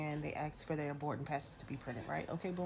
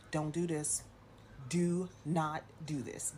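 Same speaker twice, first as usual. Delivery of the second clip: "Do not do this" slow, every word separate; flat warning, each word its own beat; firm refusal; slower than usual. Retold or imitated. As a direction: spell it out slowly, no room to argue. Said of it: "Just like that".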